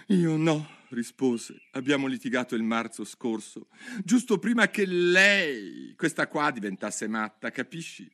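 high, agitated hatter voice; a rattled hatter complaining; the mad hatter. Acted. Hatter telling Alice about the quarrel, high and agitated.

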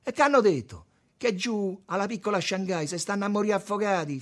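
high, loud and urgent; heated exchange. A narrator's reading. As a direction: call it out over the crowd. Concitato botta e risposta sull'alluvione. (scambio concitato a voce alta)

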